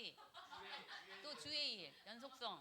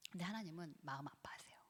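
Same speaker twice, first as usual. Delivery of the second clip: soft sorrowful whisper; 5 semitones lower, 9 dB quieter than usual. Acted. Preacher whispering God's sorrow to the congregation. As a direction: hush it like a confidence.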